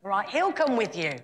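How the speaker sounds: a touch of angry impatience, punched out; exasperated God. Retold or imitated. God snapping at reluctant Moses, mildly exasperated. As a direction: give in with mild mock exasperation. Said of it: "the Lord got angry and he went".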